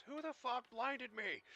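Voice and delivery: high, slow roaring monster voice; booming dragon voice. Acted. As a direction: bellow it like an enraged dragon. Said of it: "In a booming dragon voice".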